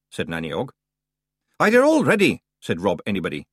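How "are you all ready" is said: higher, louder Scottish shout-out to the crew; rally the Feegles, Scottish; Scottish call. Acted. Rob Anybody calls.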